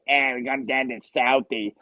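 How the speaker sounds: lightly imitated Southie Boston accent; quick hint of working-class Boston accent. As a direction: put on a mock Boston accent. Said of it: "it's like Boston accents".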